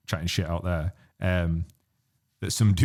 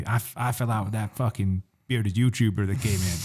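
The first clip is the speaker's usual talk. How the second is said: lightly imitated Texan local; mock Texan accent. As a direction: try a rival Texan accent for a laugh. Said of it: "who did a better accent".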